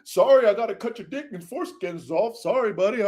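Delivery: mock-apologetic, lightly put-on sweet voice; mock sweet talk. Sarcastic impression of a too-polite King David, mock sweet. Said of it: "talking sweet and shit".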